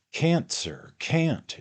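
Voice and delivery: high, loud protest; exclaiming. A narrator's reading. Host's man exclaims to Pickwick, loud and high. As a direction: cry it out, refusing to hear no. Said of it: "exclaimed Mister Leo Hunter".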